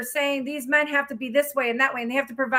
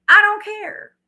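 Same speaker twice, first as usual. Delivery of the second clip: higher, louder burst on I; defiant shout; 8 semitones higher, 6 dB louder, slower than usual. Real, not acted. Ranting to viewers, a loud defiant outburst. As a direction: fling it out, defiant. Ranting about women who demand.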